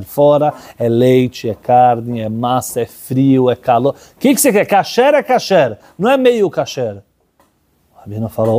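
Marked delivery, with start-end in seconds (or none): 3.9-7.0 a mildly raised, insistent rabbi's voice. Retold or imitated. Rabbi insisting to the boy, mildly emphatic. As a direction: press the point, no half measures.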